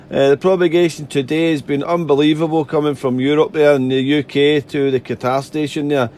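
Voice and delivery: tired, hoarse vocal cords. Real, not acted. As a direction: speak through a worn-out throat. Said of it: "on the vocal cords there".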